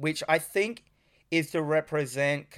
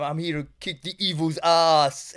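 bad Jamaican accent; 3 dB louder than usual. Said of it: "I'm gonna fuck this accent up".

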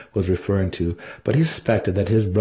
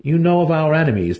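higher, leading question, stress on know; prompting brother; 8 semitones higher, 4 dB louder than usual. Acted. Dinin leading Drizzt on: prompting, stress on know. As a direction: coax him toward the answer. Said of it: "Dinin prompted".

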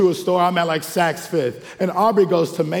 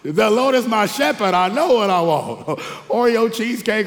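laughing mock hymn; 5 semitones higher than usual. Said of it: "you see it all".

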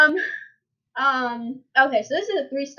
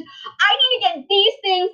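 mild mock anger; 8 semitones higher than usual. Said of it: "my mom got so mad".

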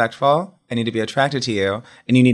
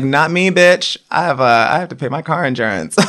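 loud sassy refusal; 4 semitones higher, 5 dB louder than usual. Retold or imitated.

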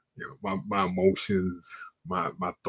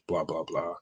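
whispered blah; 5 semitones lower, 6 dB quieter than usual. Retold or imitated. Glossing over her excuses.

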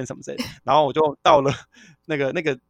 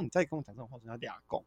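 much softer, low grumbling warning; quiet irritated threat; 5 semitones lower, 15 dB quieter than usual. Retold or imitated. Retelling to friends how he warned a picky companion, quiet irritated threat. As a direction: mutter the threat with a sour face. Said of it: "因为我就当时就大臭脸啊".

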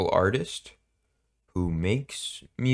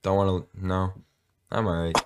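awkward driver; 5 dB louder than usual. Pretend. Acting out an embarrassed driver friend.

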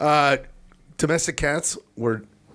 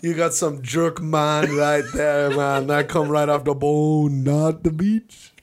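mock Jamaican accent; slower than usual. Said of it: "I'm just going Jamaican".

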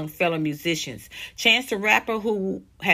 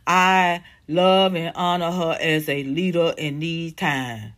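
slow mocking quote; 4 semitones lower, slower than usual. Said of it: "And now he's saying".

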